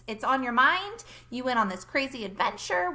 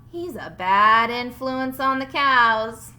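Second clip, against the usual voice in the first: louder, slow stern order; 8 dB louder, slower than usual. Acted. Farmer Brown ordering Bob to keep Duck inside. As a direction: lay down the law slowly.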